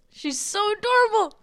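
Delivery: high-pitched fond squeal; gush, rising into a squeaky eee; gushing adoration. Real, not acted. Speaker adores her friend's British grandmother, gushing in a high squeal.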